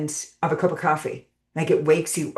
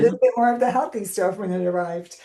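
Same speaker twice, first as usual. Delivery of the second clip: self-mocking indulgence; 5 semitones higher, 3 dB louder, faster than usual. Mimicking own habit of excess.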